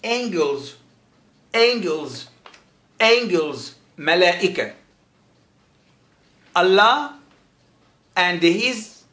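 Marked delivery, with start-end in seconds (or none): 0.0-3.6 angels with a hard G; demonstrated pronunciation. Shown as a demonstration. Teacher showing how the letter is said, angels with a hard G. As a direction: say angels as AYN-gelz, a falling tune each time. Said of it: "فهنا حرف جي ينطق ج".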